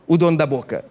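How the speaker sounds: normal talking voice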